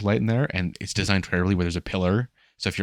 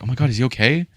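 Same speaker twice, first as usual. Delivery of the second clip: higher, louder mock concern; mock worry; 6 semitones higher, 6 dB louder than usual. Imitating worried people fussing over a nosebleed, mock worry. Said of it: "like, all worried".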